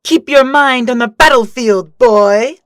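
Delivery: loud sharp reprimand; mentor's loud rebuke; scolding shout. Acted. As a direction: snap him back into the fight.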